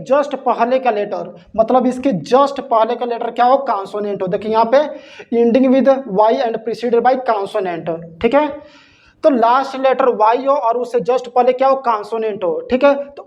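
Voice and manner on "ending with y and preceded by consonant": slow, deliberate reading of the rule; spaced-out dictation of the rule. Shown as a demonstration. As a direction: read each word out slowly for copying. Reading rule slowly from notes.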